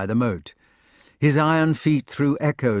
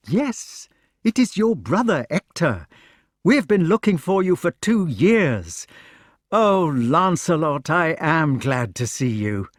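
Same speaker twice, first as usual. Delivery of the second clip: much higher, louder, tumbling out; astonished eager questions; 6 semitones higher, 3 dB louder than usual. Acted. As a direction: press him with amazed questions. Knight tells of long search.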